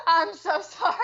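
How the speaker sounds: sorry through embarrassed laughter; laughing apology. Real, not acted. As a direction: giggle out an apology. Apologizing after hot-mic slip.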